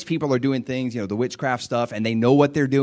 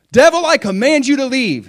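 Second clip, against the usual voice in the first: high, loud command without authority; weak command; 13 semitones higher, 10 dB louder than usual. Shown as a demonstration. Preacher shows a command with no authority, high and loud. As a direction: order the devil off on your own. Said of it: "if on my own I just say".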